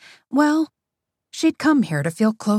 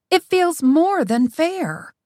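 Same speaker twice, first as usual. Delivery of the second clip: solemn agreement; 7 semitones higher, slower than usual. A narrator's reading. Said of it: "Teddy nodded solemnly".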